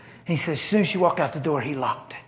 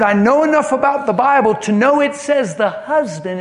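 husband's demand; 7 semitones higher, 5 dB louder than usual. Retold or imitated. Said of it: "He said".

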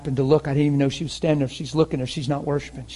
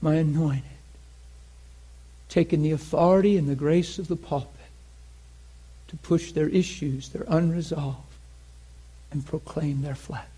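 lightly voiced God, almost a whisper; God's hushed voice; 4 dB quieter than usual. God quietly tells Dan his words, in a soft whisper. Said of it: "He said".

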